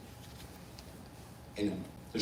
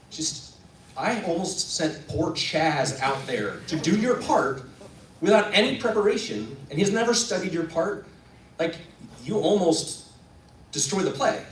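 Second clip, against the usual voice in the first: raised, emphatic telling-off; acted scolding; 4 semitones higher than usual. Stage manager to actor who vanished, scolding. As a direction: scold him, hitting each point.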